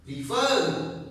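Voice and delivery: "Refer" with the last syllable stronger; stress on second syllable. Shown as a demonstration. Teacher showing students which syllable is stronger, "Refer" stressed on the end. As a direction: lean on the "fer" of "Refer". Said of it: "the sound is stronger".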